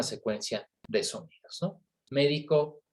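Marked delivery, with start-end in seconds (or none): 2.1-2.8 Médico, stress on MÉ, raised pitch; stress on first syllable. Shown as a demonstration. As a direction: say Médico as MÉ-di-co, the doctor. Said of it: "con el solo cambio de acento".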